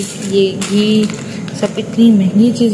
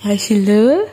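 put-on high, sing-song cooing at a baby; baby talk; 5 semitones higher, slower than usual. Mother coaxes her serious baby daughter with high cooing. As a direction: coo to the little one to get a smile.

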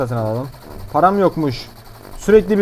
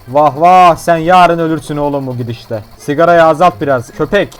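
scolding doctor; 6 dB louder than usual. Pretend.

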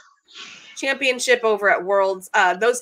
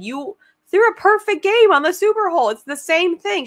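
high-pitched retold encouragement; retelling an urgent pep talk in a high voice; emphatic pep talk; 10 semitones higher, 4 dB louder than usual. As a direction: insist it to her, pitched well up. Retelling her pep talk to player.

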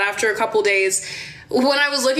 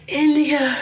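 higher, slow mock of brother; tweaking brother; 4 semitones higher, slower than usual. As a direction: imitate an out-of-it brother fretting over his daughter. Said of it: "one of my brothers who is also".

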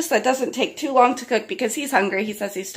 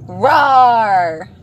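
louder growly roar demo; dinosaur roar; 8 dB louder than usual. Shown as a demonstration. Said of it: "Does it say".

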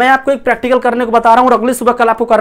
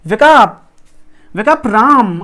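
wake-up call; much slower than usual. Shown as a demonstration. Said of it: "what we are saying".

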